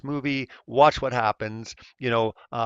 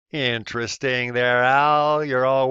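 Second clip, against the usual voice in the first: louder, pointed sarcastic aside; sarcastic jab; 6 dB louder, slower than usual. Real, not acted. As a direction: needle Al with sarcasm.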